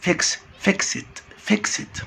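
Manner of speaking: فيكسد said as fekst with a t ending; فيكسد: end on st, no vowel. Shown as a demonstration. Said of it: "الاي دي تنطق تي".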